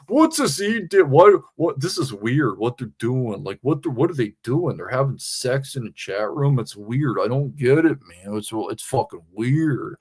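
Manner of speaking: a loose sketch of a confused complainer; imitating JT. Streamer half-impersonating JT in chat. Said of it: "That wasn't even an impersonation".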